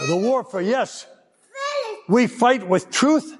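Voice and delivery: ordinary delivery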